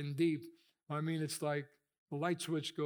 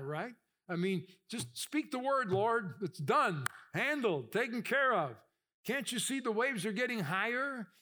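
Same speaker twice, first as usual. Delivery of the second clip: higher, pressing complaint to the Lord; pleading prayer; 5 semitones higher than usual. Retold or imitated. Believer pleading with God mid-storm, higher and urgent. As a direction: press God to act now.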